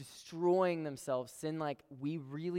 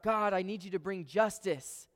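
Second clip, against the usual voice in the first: pleading prayer, higher and louder; mock cry to God; 5 semitones higher, 5 dB louder than usual. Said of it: "he cries out".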